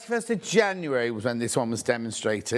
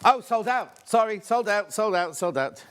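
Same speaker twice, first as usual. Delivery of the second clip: surprised; 4 semitones higher than usual. Real, not acted. Item sells out live.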